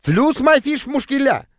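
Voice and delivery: high, slow drawn-out merchant's cry; high-pitched bazaar seller; squealing street vendor. A narrator's reading. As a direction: squeal it slowly in a trader's voice. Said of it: "заверещал запыхавшийся торговец".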